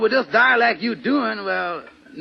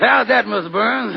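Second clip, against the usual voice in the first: Amos voice. Acted. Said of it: "Well, that's better, Amos".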